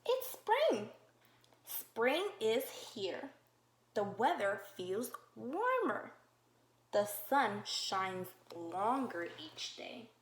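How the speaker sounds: slow, clear read-aloud for little ones; reading to children. Acted. Teacher reading a spring book to kids, slow storybook voice. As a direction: read each page slowly to the class.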